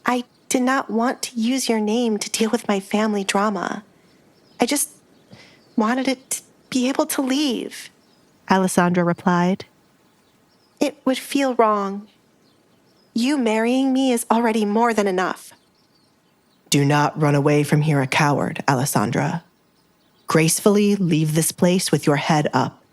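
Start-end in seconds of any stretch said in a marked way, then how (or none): 0.1-7.9 higher, softly protesting heroine; Alessandra, reluctant. Acted. Fiancée explaining she only wanted to leave, reluctant. 10.8-15.5 Alessandra, reluctant. Acted. Fiancée explaining she only wanted to leave, reluctant. 16.7-22.8 lightly voiced firm Duke, slightly lowered; Edgar, commanding. Duke telling his fiancée to stop cowering, commanding.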